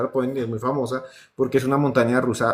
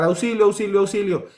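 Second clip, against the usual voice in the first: pide auxilio con un grito fingido leve; grito de auxilio imitado; 6 semitones higher than usual. Retold or imitated. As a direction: imita al niño que grita. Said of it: "empezó a gritar y a gritar". (grito de auxilio a medias)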